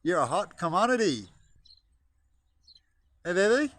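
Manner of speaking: high, loud cheeky flirt; playful pickup line to a chicken; mock flirting. Real, not acted. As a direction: chat up the hen.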